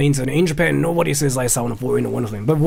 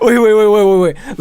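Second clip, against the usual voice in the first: flustered; 6 semitones higher, 7 dB louder than usual. Real, not acted. Call suddenly dropped.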